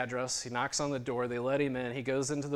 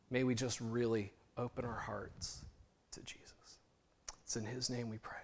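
closing prayer. Acted. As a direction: pray over the congregation gently.

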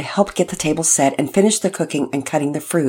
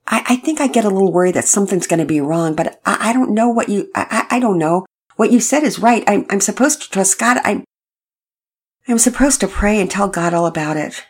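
nervous bro voice; 5 semitones higher, 4 dB louder than usual. Acted. Todd nervous, stammering bro voice.

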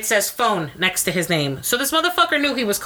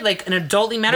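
scornful echo; 2 semitones higher than usual. Real, not acted. Scoffing at the ex's phrase, scornful. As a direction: repeat his stiff phrase back with scorn. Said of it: "We need to resolve in an adultly manner".

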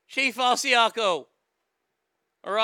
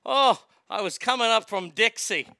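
put-on Southern accent; 5 dB louder than usual. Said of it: "I'm gonna play a Southerner".

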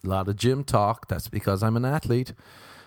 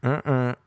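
short two-note honk; vocal car-horn imitation; car horn noise. Shown as a demonstration. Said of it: "I should have been like".

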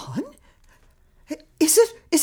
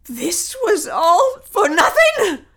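outraged shout; 2 semitones higher than usual. Acted. Woman discovers betrayal.

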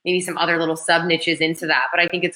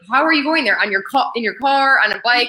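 mock Aussie question; 5 semitones higher than usual. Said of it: "is like".

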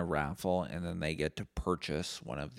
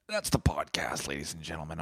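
whispered aside. Real, not acted. Host signing off the podcast, whispered. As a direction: whisper it to the listeners.

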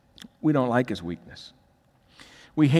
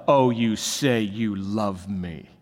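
mocking; 4 semitones lower, slower than usual. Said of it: "we mock God's love".

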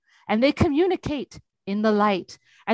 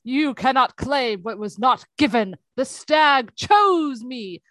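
slow, grand and louder; heroic proclamation; 3 dB louder, slower than usual. Retold or imitated. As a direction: declare it like a chosen hero. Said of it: "still in full hero mode".

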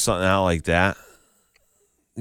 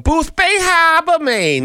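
mock Maine accent, much higher and slow; 5 dB louder, much slower than usual. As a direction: put on a playful Maine accent for the hometown. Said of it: "the weird Maine accent".

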